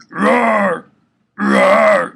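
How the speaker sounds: loud, rough growled roar; demo roar. Shown as a demonstration. Teaching the exhale scream, loud growled roar. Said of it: "like I said".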